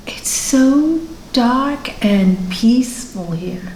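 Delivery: slow, drawn-out dreamy words; peaceful trance. Retold or imitated. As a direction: voice a client resting peacefully in trance. Retelling a client's dreamy trance.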